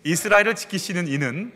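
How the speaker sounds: measured psalm recitation with deliberate phrase breaks; scripture recitation. Acted. Pastor leading a last shared confession of God as keeper, scripture recitation. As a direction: declare it steadily, phrase by phrase.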